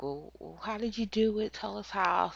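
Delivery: high, pushy mock interrogator; pressing officer. Officers pressing Brooke for how, a high insistent voice. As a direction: press her for details. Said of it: "and they're like".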